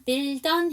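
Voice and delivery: "build on" joined as one word, bil-don; linked words. Shown as a demonstration. Teacher shows students how to link, "build on" run together. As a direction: carry the D of "build" straight into "on". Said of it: "build 다음에 on이니까".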